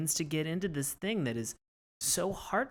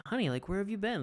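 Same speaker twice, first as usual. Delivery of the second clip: higher, sweetly coaxing call; lightly voiced husband calling to his wife; a hint of a doting husband; mock comforting husband; 8 semitones higher, 3 dB quieter than usual. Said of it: "is like".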